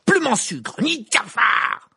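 very high, loud yell with drawn-out last words; furious shout. A narrator's reading. Harry at the unmoving gargoyle, furious shout. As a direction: hurl the words out in anger. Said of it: "s'écria-t-il furieux".

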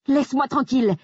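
high, frightened shout to be left alone; frightened cry. Acted. Grace crying out in fear at Jack. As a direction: cry out in fear, pushing him away. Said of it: "ai-je crié, envahi par la peur".

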